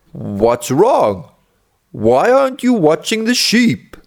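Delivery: lightly voiced villagers, rising in pitch; a hint of puzzled villagers; questioning villagers. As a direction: question the boy with mild concern. Villagers question the gloomy boy.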